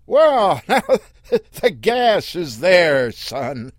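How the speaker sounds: loud, slow call. Acted. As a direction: call across the sand. Earl calling to the boy.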